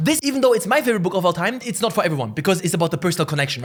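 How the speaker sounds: fast, high, eager gush; rapid excited praise; excited rush. Real, not acted. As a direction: pour it out quickly, thrilled. Excited rush about favorite book.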